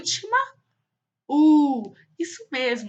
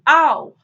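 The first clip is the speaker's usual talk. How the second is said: loud spoken "au" like a dog; imitated dog bark; 4 semitones higher, 10 dB louder than usual. Teacher showing children a dog's sound, mock bark. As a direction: bark it out in words, louder. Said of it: "o sonzinho que o cachorro faz".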